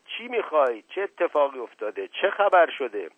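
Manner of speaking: high, urgent narrated cry; shouting. A narrator's reading. Aunt shouting as she runs after the boy, high urgent cry. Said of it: "فریاد زنان".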